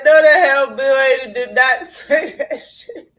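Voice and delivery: loud, high cry of disbelief, laughing; disbelieving shout. Real, not acted. Reacting to a friend's claim, laughing disbelieving shout.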